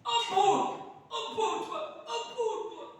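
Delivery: high, loud imitated pleading cry; imitating a cry for mercy. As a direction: mimic someone yelling for mercy under judgment. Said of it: "Dia seperti teriak-teriak".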